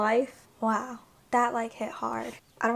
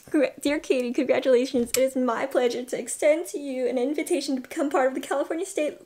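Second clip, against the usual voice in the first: fast, rising read of the letter, near tears at the end; reading the acceptance email aloud, getting choked up; excited reading; 3 semitones higher, 5 dB louder, faster than usual. Real, not acted. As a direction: race through the letter as the joy builds.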